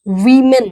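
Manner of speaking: वीमेन said as "wi-men" with a long i; correct plural. Shown as a demonstration. Teacher modelling वीमेन, the plural, for students. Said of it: "और ये क्या है".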